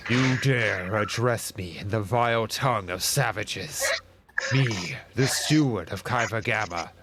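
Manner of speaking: a hint of a menacing robot Magos; lightly voiced machine lord, slow at the end. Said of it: "But, you know, more robot-y".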